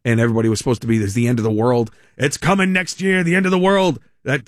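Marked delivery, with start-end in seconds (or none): 1.0-4.0 mock doomsday prophet. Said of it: "couple of those guys that said".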